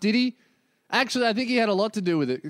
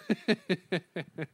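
soft laugh; 6 dB quieter than usual. Real, not acted. Laughs at himself.

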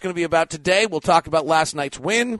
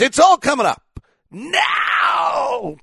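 hype shout; 11 semitones higher, much slower than usual. Real, not acted. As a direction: belt the catchphrase out. Hype intro catchphrase.

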